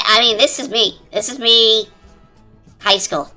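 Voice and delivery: ordinary talk, nothing marked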